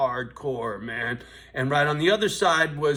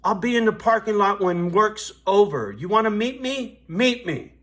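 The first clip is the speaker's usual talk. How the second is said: louder, higher retold threat to the rich kid; retold angry challenge; 6 semitones higher, 6 dB louder than usual. Raising his voice, daring him outside. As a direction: bouncer recalls daring the rich kid to fight, loud and higher. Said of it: "I said".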